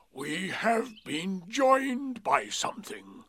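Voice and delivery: slow, breathy stage whisper of a secret; loud whisper. A narrator's reading. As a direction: whisper it loudly so all can hear. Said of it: "he said in a loud whisper".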